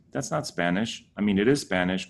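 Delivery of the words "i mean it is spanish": ordinary talk, nothing marked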